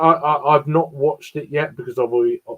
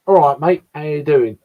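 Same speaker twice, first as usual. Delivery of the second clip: casual East London greeting; East London accent. Shown as a demonstration. Showing listeners the local East London mix, East London accent. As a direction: say it as a matey East Londoner would. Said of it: "a mix of East London".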